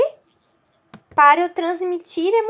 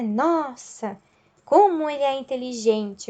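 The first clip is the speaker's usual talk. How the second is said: "Nossa, como ele é inteligente" as a mild, restrained exclamation; expressive intonation. Shown as a demonstration. Teacher showing intonation in speech, "Nossa, como ele é inteligente" mildly exclaimed. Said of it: "Eu uso uma entonação na fala".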